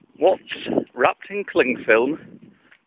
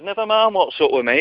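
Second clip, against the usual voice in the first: higher-pitched mock indignation; fuming; 5 semitones higher than usual. Angry customer brushing off the baker, mock fuming. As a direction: brush him off crossly. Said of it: "absolutely fuming".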